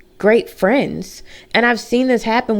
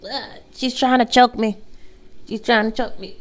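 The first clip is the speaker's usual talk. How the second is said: high, amused protest; laughing complaint; 4 semitones higher, 3 dB quieter than usual. Real, not acted. Dog lying on her neck, laughing protest. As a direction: giggle while the dog squashes you.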